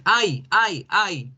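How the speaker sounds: put-on high, bouncy "Ay, ay, ay" of kids wanting a turn; eager kids calling out "Ay, ay"; imitating eager students. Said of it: "ustedes trataban de decir".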